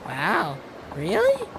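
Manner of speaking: squeaky amazed really; delighted surprise. Acted.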